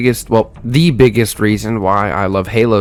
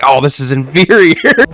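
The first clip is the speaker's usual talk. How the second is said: put-on scornful dad, louder; hammed-up disgust; mock disdain; 4 dB louder than usual. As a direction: imitate someone sneering at a lesser weapon. Mimics dad scorning enemy weapons.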